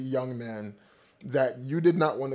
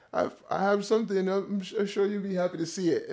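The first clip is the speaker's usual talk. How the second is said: put-on Jamaican accent; 5 semitones higher than usual. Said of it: "the accent that I'm trying to replicate".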